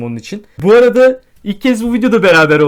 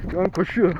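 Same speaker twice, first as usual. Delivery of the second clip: talking while running; words jolted by running steps; 6 dB quieter than usual. Real, not acted. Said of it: "Dilerseniz bir koşturalım".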